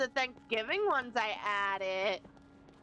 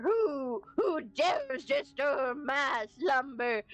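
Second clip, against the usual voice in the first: mock monster voice; 2 semitones higher, slower than usual. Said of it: "talking like this is on your throat".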